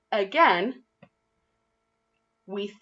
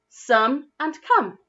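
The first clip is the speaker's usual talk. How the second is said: slow careful contrast; 5 semitones higher, slower than usual. Shown as a demonstration. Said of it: "the bit that changes".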